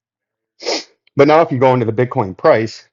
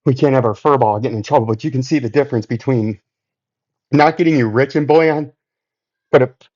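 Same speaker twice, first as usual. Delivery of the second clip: out of breath. Real, not acted. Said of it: "As I catch my breath".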